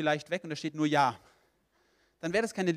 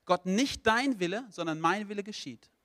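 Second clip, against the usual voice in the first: insisting on own will; 4 semitones higher, 5 dB louder than usual. Acted. Person tells God no all their life, insistent. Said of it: "Wenn du dein Leben lang sagst".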